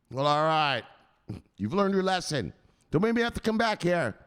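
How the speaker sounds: high warning, building; stern enforcer. Acted. Enforcer letting the victim off, stern warning. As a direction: give a final scolding warning.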